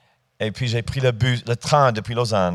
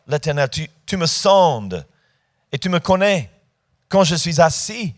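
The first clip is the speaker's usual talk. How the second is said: raised, declaimed psalm in separate phrases; scripture reading; 4 semitones higher than usual. Acted. Preacher reading Psalm 139 to the congregation, declamatory scripture reading. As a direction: proclaim each verse, pausing between them.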